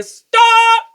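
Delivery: high, loud yell of stop. Real, not acted. Owner shouting stop at the cat, high and loud.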